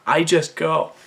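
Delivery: a hint of a comic film character; lightly put-on voice; Mister Chow. Reading a story line that recalls a film, Mister Chow impression. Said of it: "like, Mister Chow for some reason".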